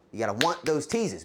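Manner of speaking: usual speaking voice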